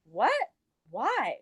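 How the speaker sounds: two short rising questions; retold bewilderment; startled questioning. Reacting to friend saying she is mad, bewildered.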